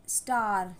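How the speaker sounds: "स्टार" with a long, falling aah; teacher's drawn-out "स्टार"; long A demo. Shown as a demonstration. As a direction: hold the vowel in "स्टार". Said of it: "long sound".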